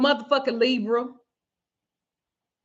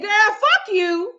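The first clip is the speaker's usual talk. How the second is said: retold curse-out; 8 semitones higher, 4 dB louder, much slower than usual. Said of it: "I said".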